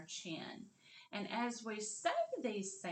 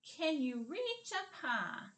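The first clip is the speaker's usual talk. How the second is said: slow model sentence; 7 semitones higher, slower than usual. Shown as a demonstration. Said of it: "my next sentence".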